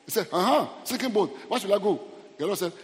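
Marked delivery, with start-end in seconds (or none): 0.3-2.0 raised, louder acted reply; mock alarm. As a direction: act out a man's loud startled question. Voices the alarmed man replying.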